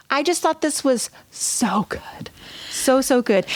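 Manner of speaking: breathy awed whisper, barely voiced; whispered gush. Real, not acted. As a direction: whisper it like you can't believe how good it was. Gushing about the scene.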